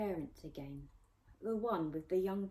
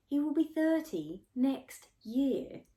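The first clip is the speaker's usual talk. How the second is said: protesting; 8 semitones higher, 7 dB louder, slower than usual. Acted. Protesting girl.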